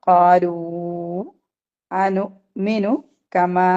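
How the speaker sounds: slow tajweed recitation, vowels stretched; slow Arabic recitation; Quranic recitation. Shown as a demonstration. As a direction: draw out കാലു and കമാ slowly. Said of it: "മീമിന്റെ മുകളിൽ ഒരു മദ്ദുണ്ട്".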